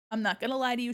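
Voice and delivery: normal talking voice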